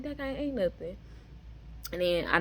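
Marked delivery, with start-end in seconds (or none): 0.0-1.0 very high, excited retelling; amazed at yourself, pitch way up. Retold or imitated. Recalling the surprise of not having eaten, excited. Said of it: "but I was excited".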